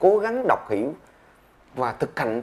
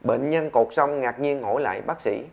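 ordinary talk

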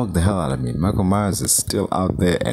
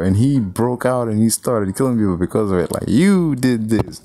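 mock accusation; 4 semitones higher than usual. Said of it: "harass Laurie Strode about, like".

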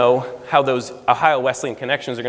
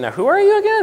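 much higher, mock-puzzled imitation; quizzical Rick; 4 dB louder than usual. Rick questioning the letter writer in his office, mock puzzled. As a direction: ask it like you've never met him, pitched way up. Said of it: "He said".

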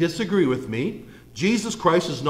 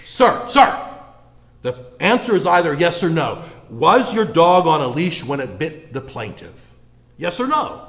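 mock courtroom scolding, pitched up; imitating Judge Judy; 4 dB louder than usual. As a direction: play the exasperated judge demanding a straight answer. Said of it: "It reminds me very much of Judge Judy".

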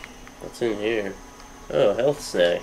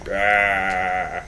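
zombie; 2 semitones lower, 6 dB quieter, much slower than usual. Pretend. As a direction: grumble rah like a lazy zombie. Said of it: "I'm just pretend I'm a zombie".

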